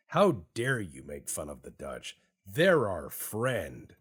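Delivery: hammed-up offended retort; mock indignation. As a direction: protest as if insulted, dragging the last words. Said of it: "Argentina was like".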